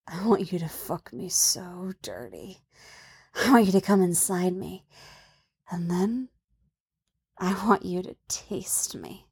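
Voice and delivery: hushed, intimate near-whisper; murmured in his ear. A narrator's reading. She speaks close to his ear, murmuring softly. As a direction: keep it soft and close. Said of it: "moves her mouth close to his ear".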